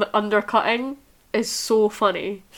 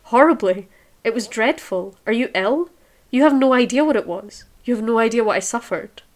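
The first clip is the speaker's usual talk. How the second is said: louder, cutting reproach; appalled anger; 2 semitones higher, 4 dB louder, faster than usual. Acted. Dorian scolding Sybil for her awful acting, appalled anger. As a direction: let the horror break out in anger. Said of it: "he answered, gazing at her in amazement".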